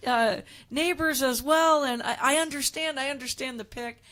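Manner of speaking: lightly put-on New York accent. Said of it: "Say it in a New York accent".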